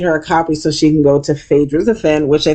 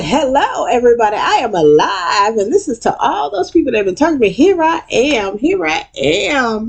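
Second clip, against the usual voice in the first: grand resurrection speech; 8 semitones higher than usual. Retold or imitated. Quad rising from the coffin, grand theatrical proclamation. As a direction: make a hammed-up entrance. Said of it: "And she's like".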